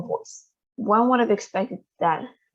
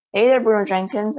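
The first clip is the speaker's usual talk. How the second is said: calling out; 3 semitones higher, 5 dB louder than usual. Acted. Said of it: "I called".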